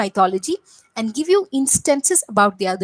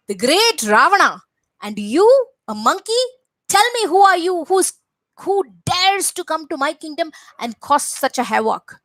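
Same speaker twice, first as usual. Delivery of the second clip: angry Ravana; 4 semitones higher, 3 dB louder than usual. Acted. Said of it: "Ravana looked at Hanuman and said".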